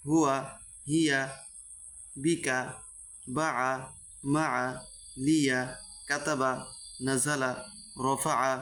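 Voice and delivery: word-list reading, each word brief with a pause after; crisp teacher's model reading, one word at a time; short quick vowels. Shown as a demonstration. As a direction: say each word promptly without stretching its vowels. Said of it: "হরকতের উচ্চারণ তাড়াতাড়ি করতে হবে".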